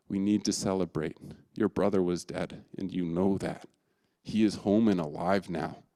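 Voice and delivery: calm him with a father's love; a touch of tender love. Acted. Father answering his angry son, lightly tender. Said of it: "responds to his son in love".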